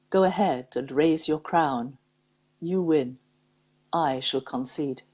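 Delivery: measured, unhurried poem recital; poem reading. Acted. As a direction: read it like a heartfelt verse to listeners. Reads a poem aloud.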